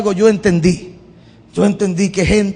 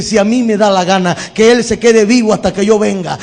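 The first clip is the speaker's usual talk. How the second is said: fed up. Pretend. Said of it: "se pone ya hasta aquí y le dice".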